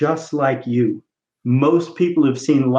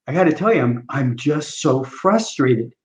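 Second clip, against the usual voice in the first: frustrated patient; 2 semitones lower than usual. Acted. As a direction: drag it out like a fed-up patient. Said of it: "I'm the patient".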